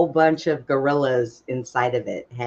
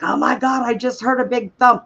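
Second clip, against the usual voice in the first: higher, alarmed imitation of the stepdad; mock panicked stepdad; 10 semitones higher than usual. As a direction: play up his panic. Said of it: "My stepdad was freaking out".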